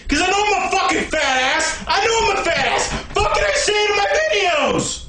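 shouted, climbing exasperation; angry outburst. Acted. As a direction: build up angrily, pitch rising. Ranting about being called fat.

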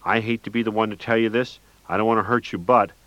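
high-pitched mournful voice; high-pitched, mournful mock sympathy. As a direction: sound falsely sorry, high and mournful. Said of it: "in a high-pitched, mournful voice".

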